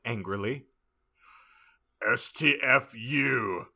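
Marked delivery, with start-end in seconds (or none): 2.1-3.7 slow, spelled-out snap. Acted. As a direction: spell it out with disdain. Fudge character snaps.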